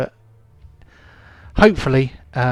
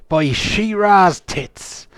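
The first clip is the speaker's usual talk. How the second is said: pirate oath; 5 semitones higher, much slower than usual. Acted.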